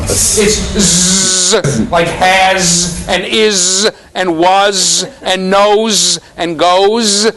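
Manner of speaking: long z held on "has", "is", "was", "knows", "goes"; buzzing z endings. Shown as a demonstration. Teacher showing the common sound of S, drawn-out buzzing z. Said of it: "the most common sound that S makes".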